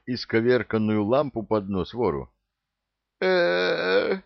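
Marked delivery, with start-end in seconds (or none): 3.2-4.2 much higher strangled wheeze; choked wheeze. A narrator's reading. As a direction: gasp as if throttled. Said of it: "прохрипел святой".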